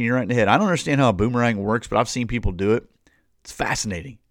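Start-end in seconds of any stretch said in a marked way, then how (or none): 3.4-4.2 whispered, amused aside. Real, not acted. Preacher musing about boomerangs, in a whisper. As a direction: breathe it like a private wonder.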